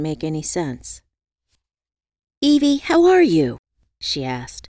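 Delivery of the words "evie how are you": insistent. Acted. Worried friend asking.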